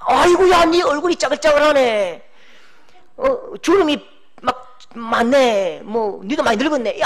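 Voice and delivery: hammed-up nagging old woman; mock teasing rebuke. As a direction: tease them about their wrinkles, mock-pitying. Mock rebuke spoken in God's name.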